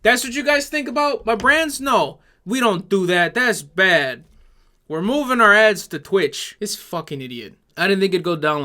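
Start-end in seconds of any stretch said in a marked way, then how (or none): 0.0-6.5 mock clueless company. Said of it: "these companies ... are like".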